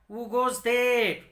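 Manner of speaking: loud, slow, booming challenge; monster's shout. Acted. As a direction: bellow it out like a monster guarding the path. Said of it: "cried, shouted loudly".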